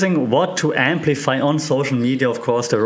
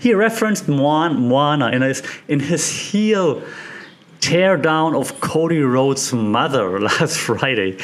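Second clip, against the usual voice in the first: gleeful; 2 semitones higher than usual. Retold or imitated. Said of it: "decode with, like, glee".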